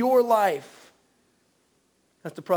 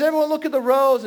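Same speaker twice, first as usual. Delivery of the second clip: angry preacher; 5 semitones higher, 5 dB louder, faster than usual. Retold or imitated. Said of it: "he starts yelling and screaming".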